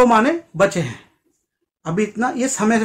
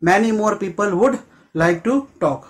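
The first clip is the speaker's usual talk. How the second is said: very slow, even delivery; slow model sentence again; much slower than usual. Shown as a demonstration. Teacher repeating the sentence for students, slow. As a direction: repeat it slowly and evenly. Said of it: "I know".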